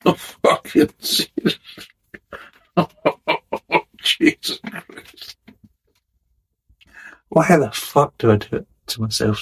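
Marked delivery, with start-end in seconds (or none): 0.1-5.4 disgusted breathy groan. Real, not acted. Tasting a foul beer.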